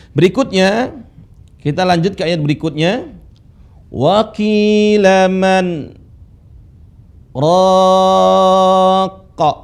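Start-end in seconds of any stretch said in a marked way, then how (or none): 3.9-9.5 Wa qila man, pause, raqa; pause after man. Shown as a demonstration. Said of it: "saya baca dengan jeda ya". (jeda setelah man lalu raqa)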